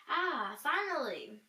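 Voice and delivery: slow, drawn-out sigh of relief; relieved sigh. Acted. The kingdom finally asleep, relieved slow sigh. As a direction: stretch it out like a weary exhale.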